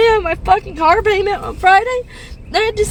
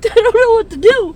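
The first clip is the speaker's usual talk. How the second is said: sobbing; 4 semitones higher, 3 dB louder than usual. Real, not acted. Overwhelmed by bills, crying.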